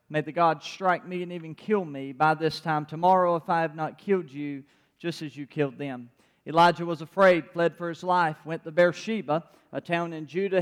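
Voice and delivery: measured, even Bible reading to the congregation; calm scripture read-aloud. Acted. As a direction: read the passage steadily, like a pastor. Reads First Kings aloud.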